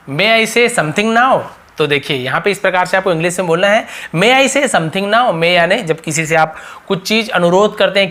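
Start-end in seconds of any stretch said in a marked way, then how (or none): 0.1-1.4 each word drawn out; slow model question. Shown as a demonstration. Teacher slowly modelling a polite question. 4.2-5.3 word by word; slow model question. Shown as a demonstration. Teacher slowly repeating the question for class.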